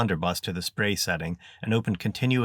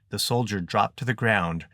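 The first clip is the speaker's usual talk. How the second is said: usual speaking voice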